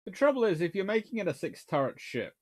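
usual speaking voice

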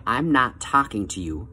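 calm, even delivery, slowing at the end. Shown as a demonstration. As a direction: say it calmly, easing down on the second half. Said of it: "Very calmly say".

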